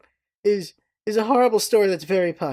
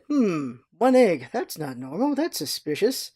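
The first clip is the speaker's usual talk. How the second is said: suspicious waiter; 3 dB quieter than usual. Retold or imitated. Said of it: "the waiter's like".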